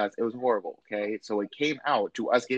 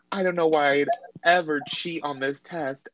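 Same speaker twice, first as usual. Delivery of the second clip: higher-pitched mock distress; imitated breakdown; 5 semitones higher than usual. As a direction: lightly imitate someone protesting in a panic. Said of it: "she's having a mental breakdown".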